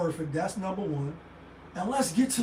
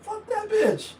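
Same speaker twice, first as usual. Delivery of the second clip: casual dismissal; 4 semitones higher than usual. Retold or imitated. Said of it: "So I'm just like".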